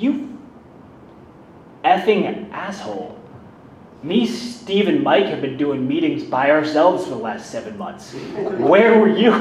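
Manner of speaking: high, loud outraged shout; furious yell. Retold or imitated. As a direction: chew him out, disbelieving. Friend yelling at him, retold.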